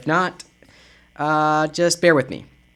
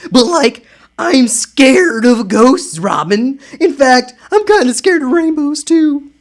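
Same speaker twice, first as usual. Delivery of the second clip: lightly voiced scared Shaggy; 4 semitones higher than usual. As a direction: whine a little like Shaggy. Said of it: "I'm doing different voices for different people".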